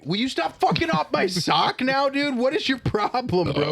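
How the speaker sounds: very high, whiny scolding voice; mock outraged roommate. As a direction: scold him like a fed-up roommate. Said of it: "and I".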